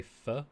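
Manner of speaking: "pho" said as a plain F sound in place of TH; th-fronting. Shown as a demonstration. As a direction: say "pho" with lip-on-teeth F, no TH. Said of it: "I can't pronounce the T H sound properly".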